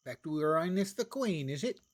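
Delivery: lightly hammed-up British accent; terrible British accent. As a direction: put on a badly faked British accent. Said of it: "That was my terrible British accent".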